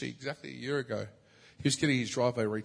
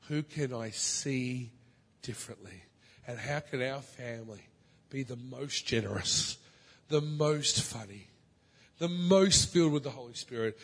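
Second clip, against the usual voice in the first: prayerful plea; slower than usual. Acted. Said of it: "You have to be willing to say".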